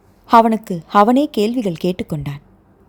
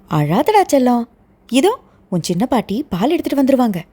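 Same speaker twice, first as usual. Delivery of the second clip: soothing grandma; 4 semitones higher than usual. Acted. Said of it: "சமாதானம் செய்து கொண்டிருந்தார்".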